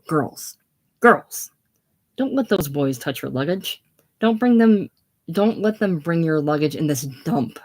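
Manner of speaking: half-acted call down to the girls; shouting down the hill. Miss Fellows calling down the hill to her party, uneven mock shout. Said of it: "Miss Fellows shouting down the hill".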